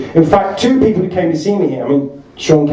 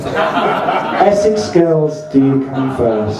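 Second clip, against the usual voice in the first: slow, laughing through the punchline; much slower than usual. Real, not acted. Comic savouring the punchline to the audience, laughing. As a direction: savour the joke while laughing.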